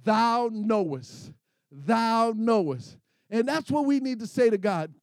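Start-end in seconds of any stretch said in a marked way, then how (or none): 0.0-1.3 slow, reverent. Acted. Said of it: "Ezekiel simply said what". 1.7-3.0 slow, reverent. Acted. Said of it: "Ezekiel simply said what".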